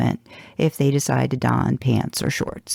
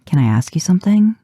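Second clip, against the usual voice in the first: breathy whisper, leaning in close; whispered question; 5 semitones higher, 6 dB louder than usual. A narrator's reading. Dean leaning in to the librarian, whispering. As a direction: whisper it like a secret.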